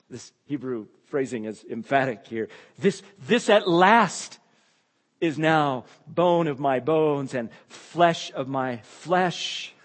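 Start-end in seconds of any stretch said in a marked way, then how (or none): 2.8-9.7 Adam's joyful shout, drawn out; retold joyful shout. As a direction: proclaim it like a man overjoyed. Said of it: "he shouts out".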